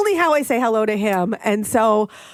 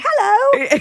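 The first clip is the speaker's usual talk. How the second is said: high, loud mock-British hello; put-on British accent; 6 dB louder than usual. Answering coworker's good morning, exaggerated British accent. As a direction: chirp back in fake British. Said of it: "I'm putting on an accent".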